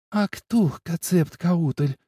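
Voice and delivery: slow drawn-out moan. A narrator's reading. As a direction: moan the name slowly. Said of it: "стонет двуххвостая".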